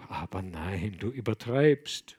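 rock him gently with the words; comforting. Acted. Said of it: "wiegte ihn tröstend der Abt".

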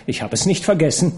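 quick laughing retort. Acted. Laugh heard, fast.

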